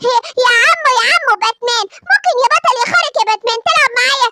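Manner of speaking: put-on eager little boy begging to play; little boy Simba. Little Simba asking Batman to play with him, eager child voice.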